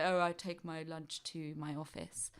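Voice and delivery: lightly done posh voice; a hint of a la-di-da office worker; silly posh voice. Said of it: "in a really silly posh voice".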